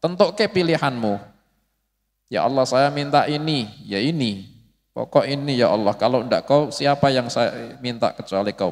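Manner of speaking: earnest whining plea; pleading whine. Shown as a demonstration. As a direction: beg God like a child who won't let go. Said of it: "merengek-rengek".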